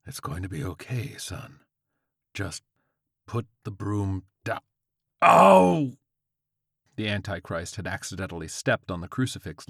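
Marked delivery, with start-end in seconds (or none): 0.0-4.6 careful reassurance. Acted. Old man calms armed George. 5.2-6.0 loud, high cry of pain; pained yell. Acted. Old man steps on crucifix, pained yell.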